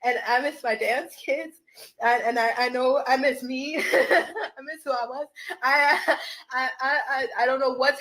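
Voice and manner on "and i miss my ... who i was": laughing through real tears; halting, tearful confession with laughs; super emotional. Real, not acted. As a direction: let sobbing laughs break the words. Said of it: "I'm getting super emotional".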